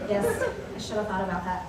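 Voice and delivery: laughing through the words; sheepish laugh while talking. Real, not acted. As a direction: chuckle as you concede. Conceding point to student.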